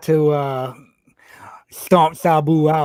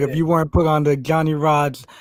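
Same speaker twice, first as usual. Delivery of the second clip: plain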